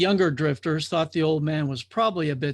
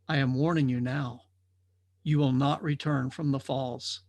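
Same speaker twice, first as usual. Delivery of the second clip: put-on solemn old watcher; 3 semitones lower than usual. Watcher gives his warning.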